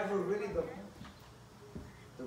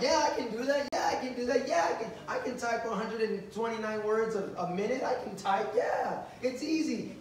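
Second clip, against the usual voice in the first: eager bluffing applicant; 3 semitones higher than usual. Retold or imitated. Job applicant bluffing at interview.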